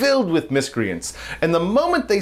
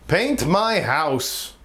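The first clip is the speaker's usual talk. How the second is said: slow deadpan punchline; much slower than usual. Retold or imitated. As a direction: lean in and drag out the last words. Punchline said slowly, leaning in.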